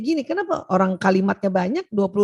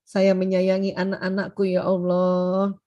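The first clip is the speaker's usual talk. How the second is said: doa lembut; 3 semitones lower than usual. Shown as a demonstration. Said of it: "bicarakan pakai bahasa kita".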